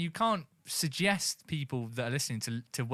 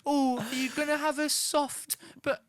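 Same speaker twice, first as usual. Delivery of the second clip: mocking taunt; 10 semitones higher than usual. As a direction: savour the victim's fear. Taunting imagined victim.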